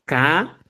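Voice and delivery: K as a plain ka, unaspirated; simple k. Shown as a demonstration. Teacher repeating the series, simple K. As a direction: say K with no puff or pop. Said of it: "El simple es K".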